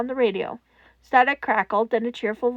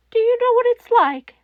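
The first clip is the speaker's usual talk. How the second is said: higher, louder demanding question; furious question; 10 semitones higher, 6 dB louder than usual. A narrator's reading. Netsu confronting Toshinori, high and furious. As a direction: demand an answer he can't give.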